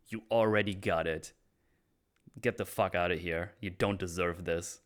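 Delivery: acted contempt easing toward a calmer end; mildly heated, then settle into dismissal; angry dismissal. Oz writes Vic off and sends him away, mildly angry. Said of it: "I like how angry Oz is here".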